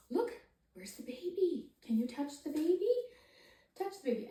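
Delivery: put-on high, playful questions to a baby; baby talk. Shown as a demonstration. Parent asking baby to touch the picture, in high playful baby talk. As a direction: coax the little one to touch the picture. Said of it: "make it interesting using your voice".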